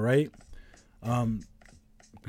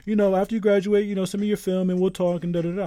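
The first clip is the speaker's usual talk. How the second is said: imitating the agent; 7 semitones higher than usual.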